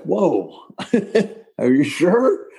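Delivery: laughing disbelief. Retold or imitated. Musician retelling being asked by his hero to sing, laughing disbelief. Retold reaction to invitation to sing.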